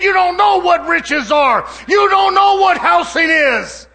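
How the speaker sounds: God answering the proud man; God's rebuke. Acted. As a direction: lay the words down heavy and slow. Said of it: "And he said".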